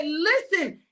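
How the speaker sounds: frustrated teacher yelling at his sleeping friends; frustrated Jesus. Acted. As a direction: scold the sleepy disciples, half laughing. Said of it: "Jesus was frustrated with them".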